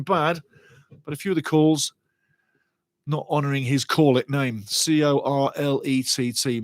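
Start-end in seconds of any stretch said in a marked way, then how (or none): 4.7-6.6 slow, letter by letter; deliberate spelling. Real, not acted. Commentator spelling the referee's name for listeners, slow and deliberate. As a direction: spell it out slowly and pointedly.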